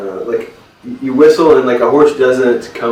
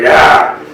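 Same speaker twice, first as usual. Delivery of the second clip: homeowner's exclamation; 5 dB louder than usual. Acted. Homeowner reacts to the offer.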